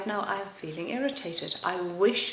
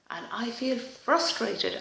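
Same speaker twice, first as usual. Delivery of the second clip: slow tapping phrase; 3 semitones higher, slower than usual. Shown as a demonstration. Tapping statement, slow and deliberate.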